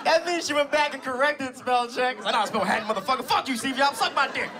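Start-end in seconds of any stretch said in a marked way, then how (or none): 2.3-4.5 lightly voiced defiant aunt; Aunt Kathy. Aunt swearing back at her nephew's hater, mock defiance. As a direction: imitate an aunt cussing out a hater. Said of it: "That's what she said".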